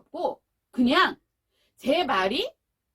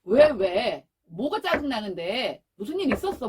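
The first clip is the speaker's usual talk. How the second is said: caring parent response; 3 semitones lower, 3 dB louder than usual. Shown as a demonstration. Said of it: "반응이 뭐 어떻게 나와야 돼요?".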